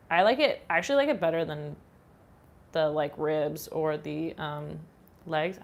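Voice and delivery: faint whistle on the consonants; whistling through teeth. Real, not acted. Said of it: "I keep whistling".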